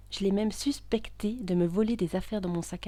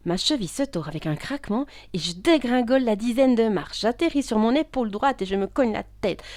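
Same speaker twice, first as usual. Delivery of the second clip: louder, higher, urgent telling; panicked narration; 4 semitones higher, 7 dB louder than usual. Acted. Woman falling down the stairs, panicked. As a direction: tumble through it with rising alarm.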